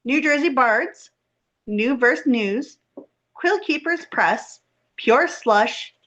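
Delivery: measured, clearly enunciated scripted read; reading a guest bio aloud; podcast host introduction. Acted. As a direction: introduce the guest formally, pausing between listed items.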